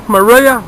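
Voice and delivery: Maria with the first syllable reduced to muh; pronunciation variant. Shown as a demonstration. Angler going back over the lure's name, pronunciation variant. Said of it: "whichever way you pronounce it".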